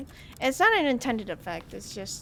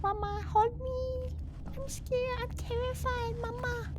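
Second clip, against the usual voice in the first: put-on terrified child; 10 semitones higher, 7 dB quieter, slower than usual. Terrified child begging mama.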